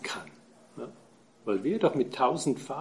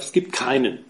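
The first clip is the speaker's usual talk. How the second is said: „keinen“ klar betont, fallend; Betonung auf keinen. Shown as a demonstration. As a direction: das Wort „keinen“ hervorheben. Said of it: "Die Betonung liegt auf". (Betonung auf „keinen“)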